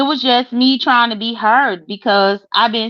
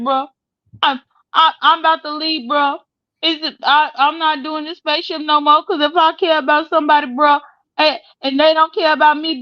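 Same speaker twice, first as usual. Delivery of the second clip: higher-pitched mimicry of someone done with it all; mock fed-up quitting; 5 semitones higher than usual. Retelling how she quit the show, mock fed-up. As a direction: imitate her announcing she's leaving, pitched up.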